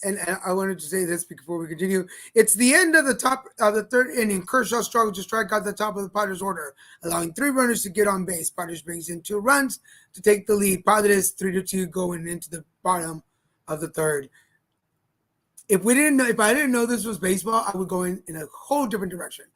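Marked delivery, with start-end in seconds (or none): 2.3-14.3 brisk sportscaster score read; play-by-play update. Acted. Co-host breaks in with a score update, announcer style. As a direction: read the inning recap like a radio announcer.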